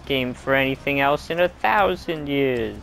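sarcastic mock medieval voice; dry sarcastic olde English praise. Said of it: "my medieval voice is also my sarcasm voice".

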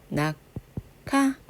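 낙하 split as 나, pause, 카; demonstrated aspiration. Shown as a demonstration. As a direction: separate 나 from a puffed 카 in 낙하. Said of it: "기역하고 히읗이 만나니까".

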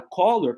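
"color" said "koh-lor", sounding like collar; mistaken color. Shown as a demonstration. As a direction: mimic the wrong o vowel in "color". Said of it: "parece que ela tá falando colarinho".

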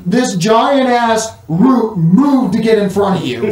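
laughing through the words; giggling while narrating. Real, not acted.

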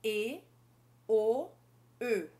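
E, then O, then Ö, each held clearly apart; three French vowels. Shown as a demonstration. Teacher contrasting French vowels for students. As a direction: contrast E, O and Ö one by one. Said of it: "fiz três sons diferentes".

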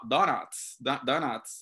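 "Donuts" con a inglesa, dó-nats; Donuts en inglés. Shown as a demonstration. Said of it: "la pronunciación sería como Dunkin' Do". ("Donuts" pronunciado en inglés)

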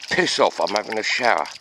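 high, cheeky frog telling him off; grumpy frog voice. Pretend. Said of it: "He says".

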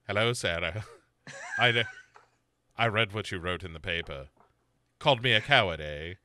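low, menacing killer voice. Retold or imitated. The speaker voicing the killer calling Sarah, low and menacing. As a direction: purr it low like a creepy serial killer. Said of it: "and he's like".

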